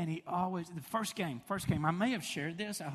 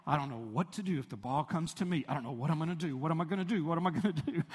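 put-on nervous excited kid; faster than usual. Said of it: "He said".

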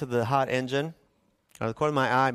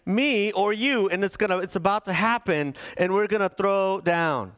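mock confrontation; 5 semitones higher than usual. Man squaring up to somebody's face, mock confrontational. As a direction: stretch out the key words like a mock fight threat. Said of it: "getting into the face of somebody and saying".

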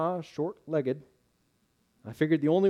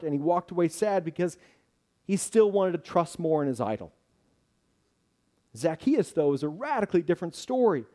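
preaching; 4 semitones higher, 3 dB louder than usual. Acted. Preaching at full force.

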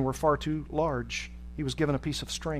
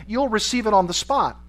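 louder, higher, authoritative answer; officer's curt reply; 6 semitones higher, 5 dB louder than usual. A narrator's reading. KGB officer answering the prisoner's screams, loud and authoritative. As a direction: raise the voice as an impatient official.

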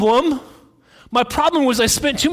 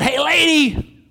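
drawn-out, higher parrot voice; parrot squawk; 6 semitones higher than usual. Acted. Parrot calls to a lady in the store, high squawky voice. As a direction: squawk it slowly like a cheeky parrot. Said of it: "Was that a parrot voice?".

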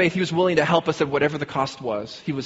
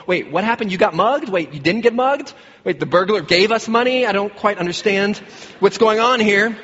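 higher-pitched, incredulous questioning; retold bewilderment; 5 semitones higher than usual. Husband questions his wife about the burglar, hammed-up bewilderment. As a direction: play up the baffled husband's disbelief.

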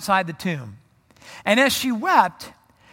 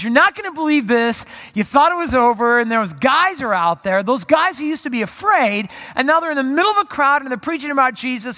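excited report; 4 semitones higher, 4 dB louder than usual. Retold or imitated. Messenger bursts in with news.

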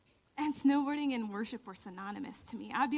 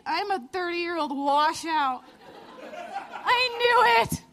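laughing self-mockery; 6 semitones higher, 10 dB louder, slower than usual. Joking self-pity after losing.

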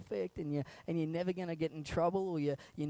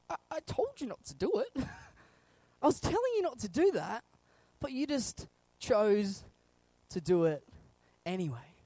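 mild reproach; 3 semitones higher than usual. Acted. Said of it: "sitting there going".

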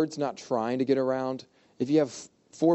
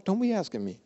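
sassy retort; 6 semitones higher, 3 dB quieter than usual. Retold or imitated. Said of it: "her response is sassy".

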